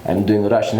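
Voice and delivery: Russian-accented English; relaxed Russian accent. Shown as a demonstration. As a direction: speak with an easy Russian accent. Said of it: "I could do Russian with you".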